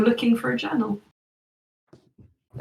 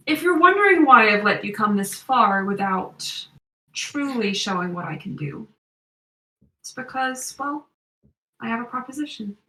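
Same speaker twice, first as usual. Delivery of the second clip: put-on American accent. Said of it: "it's American accent".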